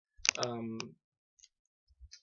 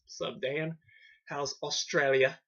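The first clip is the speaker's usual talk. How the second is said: slow, loud bad Australian accent; hammed-up Australian accent; 5 dB louder, slower than usual. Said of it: "the worst Australian accent ever".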